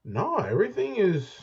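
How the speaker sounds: hollow, echoing mic sound; talking from inside a tunnel. Real, not acted. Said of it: "it sounds like you're in a tunnel".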